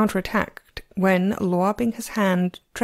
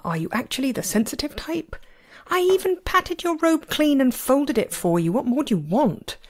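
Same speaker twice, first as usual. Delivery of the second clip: higher-pitched, exasperated complaint; mildly indignant inner protest; indignant rant; 7 semitones higher than usual. A narrator's reading. Master silently berates his oversensitive disciple, exasperated and higher.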